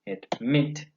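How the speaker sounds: "Admit" stressed on -MIT with a rise; stress on last syllable. Shown as a demonstration. Teacher giving another example of final stress, "Admit" stressed on MIT. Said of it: "the same".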